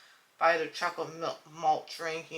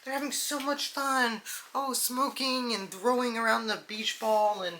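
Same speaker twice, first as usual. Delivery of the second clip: mock ad voice; 6 semitones higher than usual. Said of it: "they're like".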